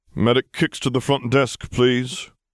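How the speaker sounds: bored, high, flat monotonous drone. A receptionist pages the medic over his comm, droning monotonously. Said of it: "he droned monotonously".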